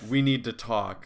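low, grave mock-harsh delivery; mock breakup talk. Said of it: "the equivalent of the breakup text".

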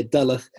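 "Duluth" said as DULL-uth; mistaken pronunciation. Retold or imitated. Co-host echoing the misreading, "Duluth" mispronounced as DULL-uth. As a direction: stress the first syllable of "Duluth", like "dull". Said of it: "the pronunciation".

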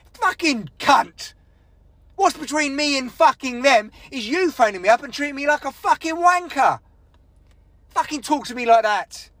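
aggrieved, sweary outburst; moody rant. Real, not acted. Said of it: "get, uh, a bit moody".

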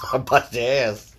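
half-laughing mock threat. Real, not acted. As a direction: say it through a laugh. Playful threat while laughing.

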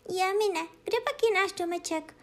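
high, frightened little cat calling out; startled kitten crying for its lost home. Acted. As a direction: gasp out the question like a scared kitten. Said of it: "lekla se kočička".

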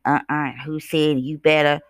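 lightly voiced sassy TV caricature; mocking caricature. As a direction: mimic the mocking sketch character, lightly. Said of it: "talking real crazy and ghetto and ratchet".

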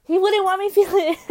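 high, loud words collapsing into laughs; breaking into laughter. Real, not acted. Podcaster cracking up at her own rant, laughing. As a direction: crack up mid-sentence.

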